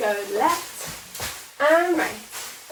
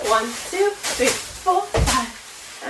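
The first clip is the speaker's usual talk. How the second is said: shouted count; 4 dB louder, much slower than usual. Shown as a demonstration. Counting cheer routine aloud.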